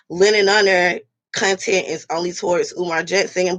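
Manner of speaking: lightly voiced critics quoting a complaint; a hint of mocking the commenters' claim. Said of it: "They be like".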